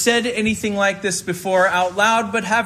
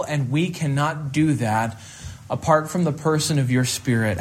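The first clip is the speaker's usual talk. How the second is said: measured, slightly lowered praying voice; public prayer; 4 semitones lower than usual. Real, not acted. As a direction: lead the congregation in earnest prayer, phrase by phrase. Leads the congregation in prayer.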